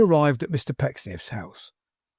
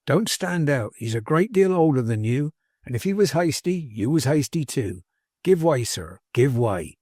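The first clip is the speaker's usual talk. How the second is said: lightly folksy servant, earnestly urging; a hint of a homespun adviser pressing his point; lightly voiced plain-spoken manservant. Manservant urging his master to appeal to grandfather, lightly folksy and earnest. Tapley urges Martin to make up.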